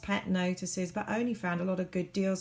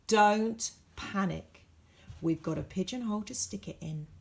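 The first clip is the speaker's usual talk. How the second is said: ad voice. A narrator's reading. Advert reassuring the reader not to panic.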